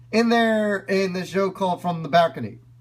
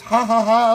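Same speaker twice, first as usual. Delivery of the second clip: put-on old man laugh demo; 3 semitones higher, 5 dB louder than usual. Shown as a demonstration. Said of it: "his sometimes goes".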